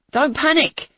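high, loud frightened call; fearful call. Acted. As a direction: call out, fear cracking through. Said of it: "I called, unable to keep the fear out".

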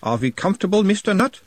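high, lilting Uberwaldian doctor; changed inner-analyst voice. A narrator's reading. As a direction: question him like an Uberwaldian analyst. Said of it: "his tone of voice changing slightly".

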